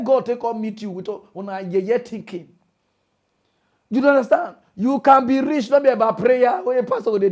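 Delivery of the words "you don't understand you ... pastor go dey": shout. Real, not acted. Ranting at believers.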